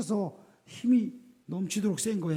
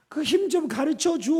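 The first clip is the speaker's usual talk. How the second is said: wheedling Delilah; 6 semitones higher than usual. Retold or imitated. Delilah asking his secret.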